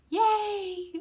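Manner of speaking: high mock cheer breaking into laughter; sarcastic laughing yay. Real, not acted. Vlogger jokes to viewers about mice, laughing sarcastic cheer. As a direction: fake celebrate, then laugh it off.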